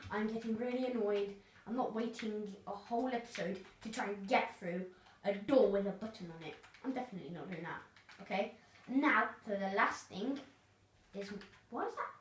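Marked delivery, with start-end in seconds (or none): 0.1-1.3 giggling through a fake complaint; playful put-on grumble; laughing mock annoyance. 11.7-12.1 surprised. Real, not acted. Sudden puzzled find in game.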